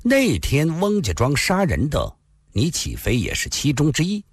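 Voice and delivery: slow, deliberate accusation; 缓缓地说; slowly. Acted. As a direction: lay it out calmly, piece by piece. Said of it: "望着他，缓缓地说道".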